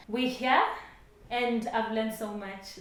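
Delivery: breathless, short of air; slightly winded speech; out of breath. Real, not acted. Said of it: "I'm even out of breath".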